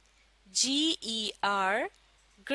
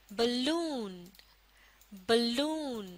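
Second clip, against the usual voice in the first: बलून with a brief ब and a long, stressed लून; teacher's model बलून, second half stressed; stress on second syllable; 3 dB quieter, much slower than usual. Shown as a demonstration. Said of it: "दूसरे हिस्से को जोर देकर".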